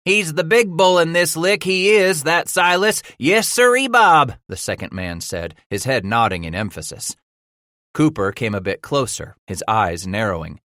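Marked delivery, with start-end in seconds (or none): 0.1-4.4 high, loud, gleeful boasting; eager sidekick. A narrator's reading. Billy hyping his leader to the stranger, gleeful. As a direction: crow about the boss like a proud sidekick. Billy bragging about Silas.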